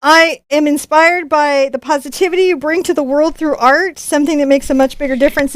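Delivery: put-on slipping, half-convincing Australian accent; bad Australian accent. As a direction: read the note aloud as a would-be Australian. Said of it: "This is still my Australian accent".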